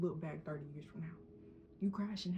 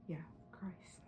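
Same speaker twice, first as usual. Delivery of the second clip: hushed, much softer whisper; soft whispered answer; 8 dB quieter than usual. Real, not acted. Vlogger answering her own question, hushed whisper. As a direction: barely breathe the answer.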